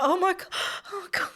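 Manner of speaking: high, squeaky oh my God; imitating herself panicking on a turbulent flight; mock panic. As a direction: replay the dread in a thin, high voice. Retelling terror at the announcement.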